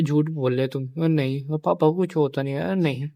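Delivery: a son shouting at his sister that she is lying, in denial; upset protest. Retold or imitated. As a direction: refuse to believe it, pushing back loudly. Retold accusing sister of lying.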